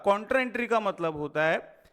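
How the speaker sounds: "Contra entry का मतलब होता है" said slowly, word by word; slow down so every word lands; teacher slowing down so students follow; deliberately slow. Shown as a demonstration. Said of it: "बहुत slow बोल रहा हूं".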